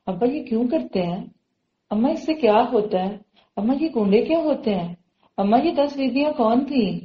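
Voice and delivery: put-on child's wondering questions to parents; ask, don't instruct, so they think; gentle questioning. Shown as a demonstration. Child asking parents so they think, gently questioning. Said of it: "اس طرح بات کریں تاکہ وہ بھی تو سوچیں".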